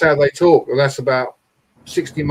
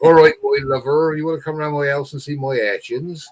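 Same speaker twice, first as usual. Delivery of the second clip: put-on West Country accent; 3 semitones higher than usual. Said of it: "And that's how they talk".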